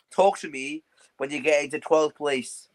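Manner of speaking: slow and pointed, like a final verdict; slow deliberate taunt. Acted. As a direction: spell it out slowly, word by word. Taunting rival, repeated line.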